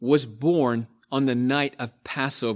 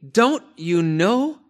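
slow, higher, louder exasperated question; frustrated rebuke; 6 semitones higher, 5 dB louder, slower than usual. Acted. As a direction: drag it out in frustration. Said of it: "you can hear the frustration in the Apostle Paul's voice".

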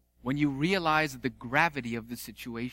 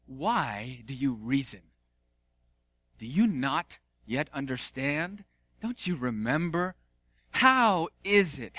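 disappointed Jesus. Acted. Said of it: "demonstrably disappointed".

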